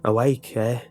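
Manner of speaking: lunch lady calling across the room; a mocking call from the kitchen; sly villain calling out. A narrator's reading. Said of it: "a voice called out".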